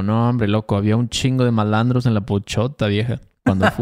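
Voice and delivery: relaxed Veracruz Jarocho slang delivery; casual Jarocho speech from Veracruz; Jarocho street talk. Shown as a demonstration. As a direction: say it like a Veracruz local, loose and easy. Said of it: "eso me salió muy jarocho".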